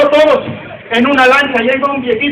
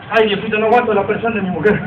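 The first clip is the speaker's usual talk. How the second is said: mock whining son; 3 semitones lower, 6 dB quieter than usual. Grown son complains to God.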